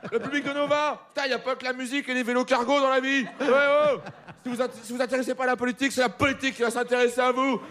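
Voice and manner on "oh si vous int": usual speaking voice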